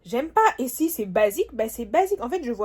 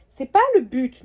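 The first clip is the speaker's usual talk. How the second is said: firm repeat; 5 dB louder than usual. Real, not acted. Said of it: "je suis un peu morose".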